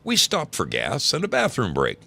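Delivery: lively, projected storytelling voice; animated story reading. A narrator's reading. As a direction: read the embarrassing tale aloud with bounce. Reads listener's embarrassing story aloud.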